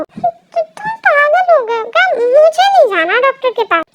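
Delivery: high, loud, flustered outburst; indignant protest. Acted. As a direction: refuse loudly, stammering into it. Girl protests being taken to doctor. (चिल्लाकर विरोध)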